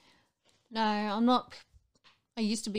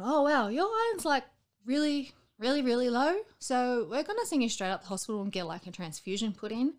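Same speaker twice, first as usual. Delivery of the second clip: higher, louder mock alarmed doctor; doctor's alarmed news; 5 semitones higher, 5 dB louder than usual. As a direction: play the doctor breaking bad blood results. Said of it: "them going".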